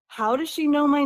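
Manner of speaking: startled, high and loud question; surprised. Retold or imitated. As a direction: blurt it out in shock. Brother startled at hearing name.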